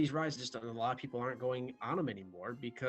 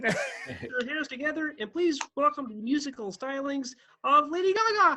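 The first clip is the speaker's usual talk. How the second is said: put-on puppet frog voice, higher and louder; 13 semitones higher, 8 dB louder than usual. Doing a Muppet Show opening introduction, in a Kermit the Frog voice. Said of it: "that was like spot on".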